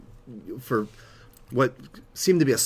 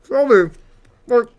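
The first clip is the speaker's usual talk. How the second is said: excited; 13 semitones higher, 10 dB louder than usual. Real, not acted. Raving about the food.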